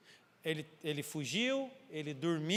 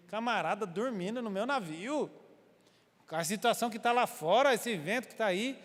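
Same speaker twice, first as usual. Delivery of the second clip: higher, louder exasperated captain; indignant ship master; 4 semitones higher, 4 dB louder than usual. Retold or imitated. Ship master indignant at Jonah sleeping during storm, exasperated. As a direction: scold the sleeping stranger in disbelief.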